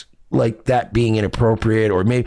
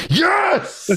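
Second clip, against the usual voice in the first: very high exclaimed "Yes!"; mock triumphant yes. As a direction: cheer it like a win.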